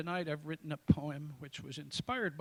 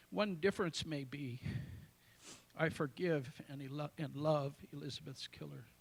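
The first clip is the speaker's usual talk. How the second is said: a solemn poetry reading; poem recitation; 3 dB louder than usual. Acted. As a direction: let each image land, with pauses. Recites his own poem aloud.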